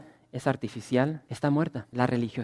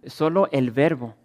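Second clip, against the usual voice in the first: normal talking voice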